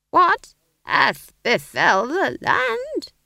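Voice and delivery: slow, high, loud hammy actor; stage declaiming. A narrator's reading. Old man's line in a play, declaimed slowly and loudly. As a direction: declaim it like a creaky stage elder.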